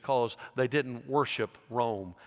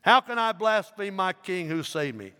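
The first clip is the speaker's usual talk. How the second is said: high, louder challenge; defiant question; 7 semitones higher, 5 dB louder than usual. A narrator's reading. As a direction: throw the question back at the governor. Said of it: "replied Polycarp".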